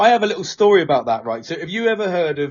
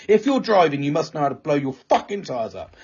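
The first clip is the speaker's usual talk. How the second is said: incredulous mock outburst, pitched up; exasperated outburst; 2 semitones higher than usual. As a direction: snap at the screen in disbelief. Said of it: "And I was like".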